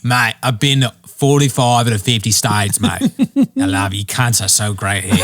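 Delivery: light imitation of an Australian fan of America; chummy Australian bloke, lightly voiced; Australian accent. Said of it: "that idiot Australian".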